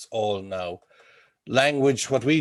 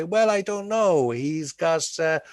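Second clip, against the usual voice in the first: high-pitched, mock-baffled layperson; imitating a stumped listener, pitched well up; puzzled non-expert; 6 semitones higher, 4 dB louder, slower than usual. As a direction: act out someone groping for an answer. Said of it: "can't really put their finger on it".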